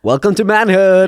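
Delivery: loud, high, stretched-out mock greeting; hammed-up welcoming announcement; mock welcome. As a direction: proclaim it slowly with exaggerated cheer. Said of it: "But then still being like".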